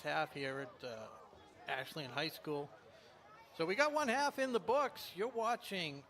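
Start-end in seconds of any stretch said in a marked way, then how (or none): 3.6-6.0 higher, louder broadcast lift; upbeat announcer lift. Real, not acted. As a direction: lift the energy for the break. Halftime sign-off.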